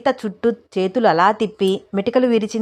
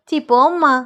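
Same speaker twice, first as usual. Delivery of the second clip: high, loud, embarrassed brush-off; bashful protest; 7 semitones higher, 5 dB louder than usual. A narrator's reading. Daughter embarrassed by her mother's teasing, bashful protest. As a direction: shoo her away, shy and squealy. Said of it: "అంది సిగ్గుపడుతూ సీత".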